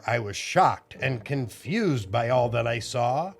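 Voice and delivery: put-on lilting read-aloud for children; story reading. A narrator's reading. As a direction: read the rhymes to the kids. Rhyming picture book read aloud.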